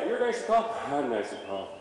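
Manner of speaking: calm horse. Retold or imitated. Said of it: "your horse go".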